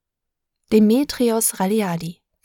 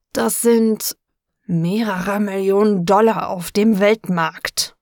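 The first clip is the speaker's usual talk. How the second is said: through clenched teeth; 3 dB louder, slower than usual. Acted. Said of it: "presste diese Worte zwischen den Zähnen hervor".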